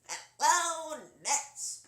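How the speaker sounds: loud, high, showy cartoon hello; cartoon character greeting. Shown as a demonstration. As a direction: belt out a big cartoon greeting. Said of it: "the next one is".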